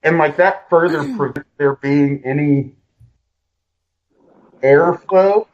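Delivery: muffled behind a mask; through a face mask. Real, not acted. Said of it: "I gotta put this mask on and it's gonna affect my voice".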